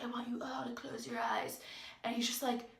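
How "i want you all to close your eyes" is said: whispered, hushed coach instruction; imitated whisper. Coach to the class, a whispered instruction to close eyes. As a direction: breathe it like a meditation guide.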